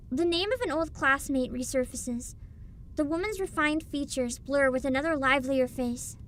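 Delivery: calm, even narrator voice; story narration. A narrator's reading. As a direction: read it like a storybook. Reading game narration.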